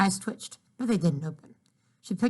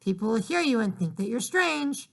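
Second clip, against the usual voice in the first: calling up; 3 semitones higher than usual. Acted. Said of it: "her mother shouted".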